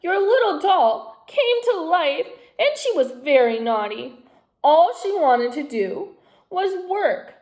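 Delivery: put-on a child pouring out her woes; tearful girl. A narrator's reading. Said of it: "sobbed Natasha".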